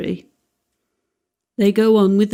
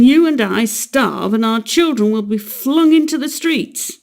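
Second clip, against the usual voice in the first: a lightly stern father, somewhat louder; 4 semitones higher, 3 dB louder than usual. Acted. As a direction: lecture her gravely, building. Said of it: "he went on sternly".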